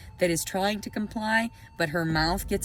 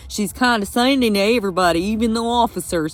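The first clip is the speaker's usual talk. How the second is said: loud heated rant, voice raised and pressing; angry rant; 7 dB louder than usual. Real, not acted. Vlogger ranting at the court over her custody papers, angry and loud. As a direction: hammer every point home, furious and loud. Ranting about Southern officers.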